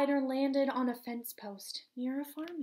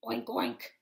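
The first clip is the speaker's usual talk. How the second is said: very low grunting pig. Acted. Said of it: "grunted the pig".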